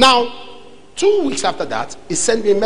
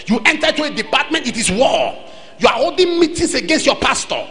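emphatic sermon warning with high-pitched openings; forceful preaching; 4 semitones higher than usual. Real, not acted. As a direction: preach each clause hard, then drop at the end.

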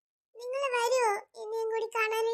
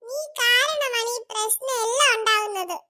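slow, crying blame; tearful accusation. Acted. Accusing her friend through acted tears, slow. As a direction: weep out the accusation.

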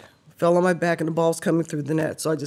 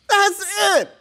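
choked up and higher, fighting back tears; emotional; 6 semitones higher than usual. Real, not acted. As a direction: voice rising high as tears come. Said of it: "you about to be that emotional".

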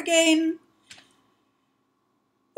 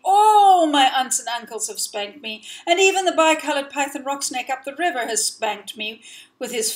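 indignant outburst; 4 dB louder than usual. Acted. Child's complaint builds.

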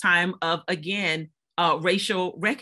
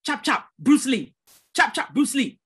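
lightly mimicked children's taunts, higher by the end; mock chanting street taunt; jeering kids; 4 semitones higher than usual. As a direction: mimic kids calling out after someone. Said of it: "they would say".

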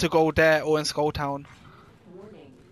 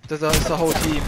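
raised urgent callout; loud warning; 6 dB louder than usual. Real, not acted. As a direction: shout the warning. Warning team of enemies.

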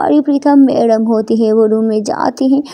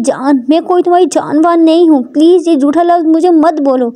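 slightly raised, irritated rebuff; irritated Prita; 4 semitones higher than usual. Acted. Prita rejects being called darling, irritated. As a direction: push away the endearment, pitched up.

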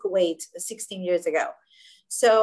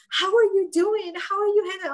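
worried pity; 8 semitones higher, 4 dB louder than usual. Retold or imitated. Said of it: "with this kind of worry, sad feeling".

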